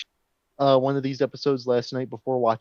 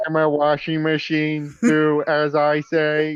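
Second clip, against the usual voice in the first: robot voice; 3 semitones higher than usual. Pretend. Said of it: "I can't even go that deep".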